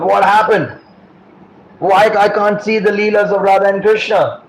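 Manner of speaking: retold dismay; disturbed. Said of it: "He's very disturbed".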